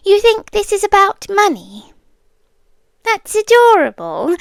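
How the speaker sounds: condescending amused scorn; mocking disbelief. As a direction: scoff at how naive they are. Captor mocks captive's guess.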